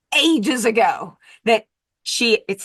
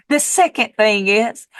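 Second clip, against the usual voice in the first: lightly attempted sweet Texas accent. Neighbor listing her doctor's second rule, in an attempted Texas accent. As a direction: try a sweet Texas twang. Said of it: "I'm gonna drop the accent".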